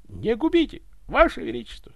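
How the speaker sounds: high, loud plea for mercy; desperate begging. Acted. Butler on his knees before the tsar, desperate begging. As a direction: beg for your life.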